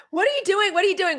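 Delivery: high, playful "What are you doing?" twice; excited mock greeting. Carrie greeting the man on the phone, high and playful. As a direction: pitch it up like an eager phone hello. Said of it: "And he did. First ring".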